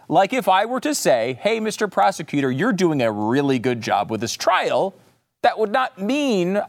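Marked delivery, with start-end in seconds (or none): 1.4-5.0 sarcastic. Shown as a demonstration. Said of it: "I was being sarcastic".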